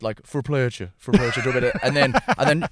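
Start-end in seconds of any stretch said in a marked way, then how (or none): 0.3-1.4 short sample of a West of Ireland accent. Shown as a demonstration. Comic demonstrating his regional accents, West Irish accent. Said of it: "like, a West".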